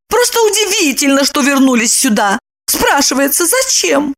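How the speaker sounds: high, mocking woman's voice; sting him with sarcasm; Lipochka, sarcastic. A narrator's reading. Lipochka taunts Roman about Glafira.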